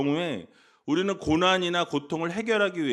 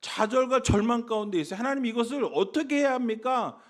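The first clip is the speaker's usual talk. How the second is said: acted pleading prayer, pitched higher; pouring out anguish; 5 semitones higher than usual. Preacher voicing a struggling believer to God, acted high-pitched plea. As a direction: pour it out to God, imitating a desperate believer. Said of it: "이 심정을 토해내는 거예요".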